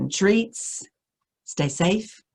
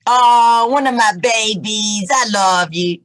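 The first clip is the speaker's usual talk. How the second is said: delighted greeting; 3 semitones higher, 5 dB louder, slower than usual. Real, not acted. Reader greets her child warmly.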